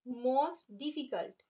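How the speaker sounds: very slow, each word drawn out for writing; slow dictation. Shown as a demonstration. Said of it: "अब हम इनकी third degree बनाते हैं". (बहुत धीरे-धीरे लिखवाते हुए)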